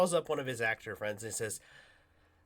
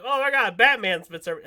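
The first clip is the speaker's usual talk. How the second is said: amazed; 7 semitones higher, 10 dB louder than usual. Retold or imitated. People amazed.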